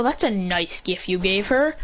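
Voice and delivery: dry mock praise, slowed down; sarcastic slow compliment to Shoto. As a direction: praise the gift while meaning the opposite. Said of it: "being sarcastic".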